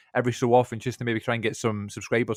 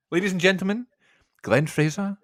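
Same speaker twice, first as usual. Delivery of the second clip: rising ring-announcer build-up; mock announcer introduction; announcer intro; 6 semitones higher than usual. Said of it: "Take it away".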